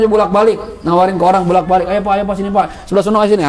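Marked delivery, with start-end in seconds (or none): 1.9-3.5 lightly voiced market seller calling out; teacher imitating a broker touting to passers-by; mock street hawker. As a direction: call customers in like a hawker, half-hearted. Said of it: "itu capek tuh kan, ngomong terus".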